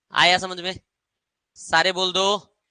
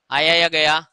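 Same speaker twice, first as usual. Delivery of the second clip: louder repeat; 6 dB louder than usual. Shown as a demonstration. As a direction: ask again louder for the class.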